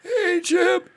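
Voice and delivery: put-on high, slow, raspy old man. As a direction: add rasp to the old man. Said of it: "a little bit more rasp".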